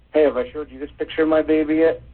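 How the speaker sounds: high perky coworker voice; chatty coworker. Retold or imitated. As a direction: gush like a proud parent.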